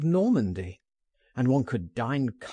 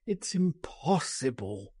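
groaned; 4 dB quieter than usual. A narrator's reading. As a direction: groan in quiet defeat. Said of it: "he groaned".

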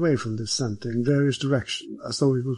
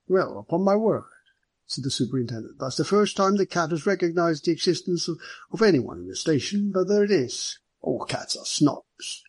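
higher, amused official voice; amused superintendent; 5 semitones higher than usual. Acted. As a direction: marvel at the cat, then a dry aside. Superintendent surprised by the cat.

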